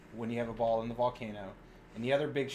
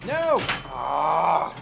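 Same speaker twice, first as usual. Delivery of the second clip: sharp dismayed cry of no; shout; 3 semitones higher, 7 dB louder than usual. Real, not acted. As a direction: yell it as the ball drains. Pinball ball drains.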